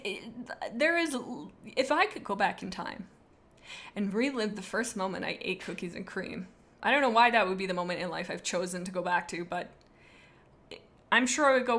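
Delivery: ordinary talk, nothing marked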